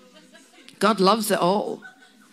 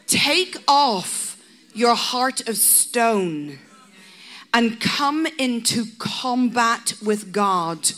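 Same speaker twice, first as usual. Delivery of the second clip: solemn divine summons; slower than usual. Acted. Voicing the Lord's solemn call.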